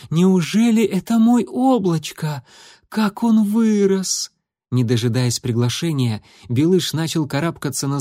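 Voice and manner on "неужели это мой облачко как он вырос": much higher, louder, slow; amazed delight. Acted. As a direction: marvel at her grown kitten. Mother sees grown son.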